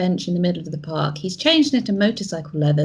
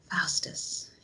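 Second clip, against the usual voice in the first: breathy whisper, much softer; breathed; 12 dB quieter than usual. Acted. The player breathes the enemy's name in shock, in a whisper. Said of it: "you breathe".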